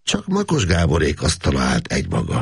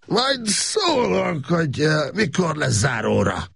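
put-on very slow, high faltering drunken voice; halting drunk; slower than usual. Drunk Gábor answering the manager, halting slurred voice. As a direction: stumble over the words, tipsy. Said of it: "akadozó hangon".

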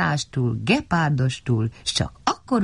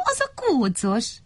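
high, fond little voice; lightly acted cheerfulness; smiling; 8 semitones higher than usual. A narrator's reading. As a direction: finish with an audible smile. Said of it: "mosolygott Mikka Makka".

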